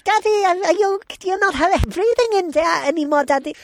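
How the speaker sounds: high, childish mock voice of little kids calling for dad; kids' voices. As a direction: play the small children pounding on the door. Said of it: "the worst accent ever".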